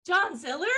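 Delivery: "John Ziller?" rising at the end like a question; up-itis. Shown as a demonstration. Trainer showing a bad habit, questioning upward lilt on "John Ziller?". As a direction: lift "Ziller" up as if unsure. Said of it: "what I call up-itis".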